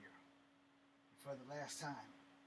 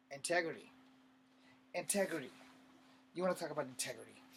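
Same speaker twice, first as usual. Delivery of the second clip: indignant, louder on each repeated word; 2 semitones higher, 5 dB louder, faster than usual. Acted. Accused soldier challenging his accuser about integrity, indignant. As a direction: throw the word back as a challenge.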